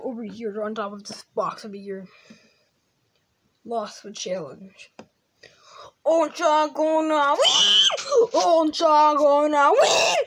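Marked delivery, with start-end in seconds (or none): 6.0-8.3 breathy, unvoiced, slow stage whisper; whispered shout. Child taunting the losing toys, slow whispered shout. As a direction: hiss it like a secret taunt. Repeated line, different takes.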